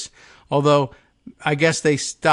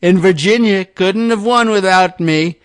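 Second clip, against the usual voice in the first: higher and louder bluster; lightly voiced boasting Trump; mock Trump read; 5 semitones higher, 5 dB louder than usual. Host rereading Trump's post, hint of bluster.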